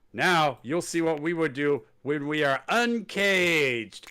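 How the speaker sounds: slow, drawn-out threat; mock the menacing promo line; a hint of a hammed-up wrestler threat. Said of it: "he says".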